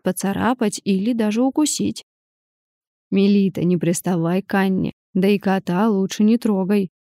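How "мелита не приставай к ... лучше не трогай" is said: stern grandfather. Acted. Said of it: "строго произнёс".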